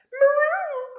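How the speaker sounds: high, loud meow; cat's cry. A narrator's reading. Cat cries at the noise, high loud yowl. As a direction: imitate a startled cat yowling. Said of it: "cried the cat".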